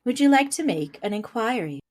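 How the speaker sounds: flat voice assistant; robot voice. Acted. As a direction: speak like Siri. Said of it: "I really like your robot voice".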